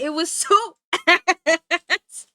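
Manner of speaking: slow, loud laugh through the word; laughing at how bad it was; laughing disgust. Real, not acted. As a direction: drag it out laughing. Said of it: "I could not handle it".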